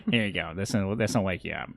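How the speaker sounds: low-pitched, casual helper in character; Adger. Acted. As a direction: offer it in a slightly put-on low voice. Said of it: "I need to get my Adger impression on".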